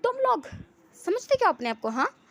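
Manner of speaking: high, loud outraged challenge; shouted, high-pitched confrontation; indignant shout. Acted. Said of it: "फिर चिल्ला के कहता है".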